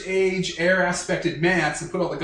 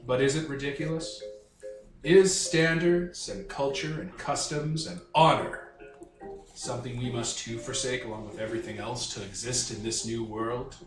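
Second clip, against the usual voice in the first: theatrical, deliberate dark-lord speech; melodramatic dark lord; 3 semitones lower, 4 dB quieter than usual. Acted. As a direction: muse grandly, dropping lower toward the end. Soth answers the count in character.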